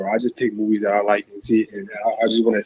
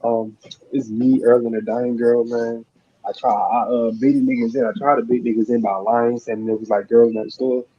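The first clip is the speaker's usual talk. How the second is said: muffled, like in a tunnel; muffled mic. Real, not acted. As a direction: sounds like a hand over the mouth. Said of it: "muffled and in a tunnel at the same time".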